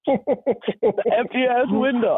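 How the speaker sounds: very slow, drawn out punchline. Retold or imitated. Narrator sums up the empty window, slow and dry. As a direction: land the joke slowly.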